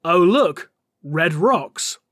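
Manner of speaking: slow, deadpan mock boredom; bored sarcasm. Bored Flesh Tearers touring the fortress, slow deadpan sarcasm. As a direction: drag it out like nothing could be duller. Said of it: "the Flesh Tearers are bored".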